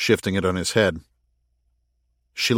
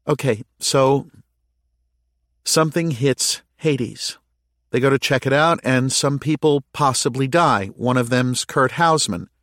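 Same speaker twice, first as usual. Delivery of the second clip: higher, measured character voice; lightly pitched-up woman piecing events together; lightly voiced Callie; 5 semitones higher than usual. A narrator's reading. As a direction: lay out a theory step by step, voice raised in pitch.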